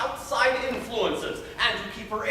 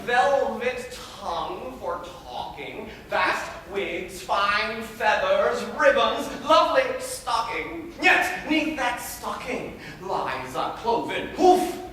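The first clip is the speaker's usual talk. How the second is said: pompous old guardian lecturing in verse, lightly voiced; a self-satisfied tutor laying down the law; Arnulf. Arnulf lecturing his young ward on suitors, smug and preachy. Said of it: "I was to play the character of".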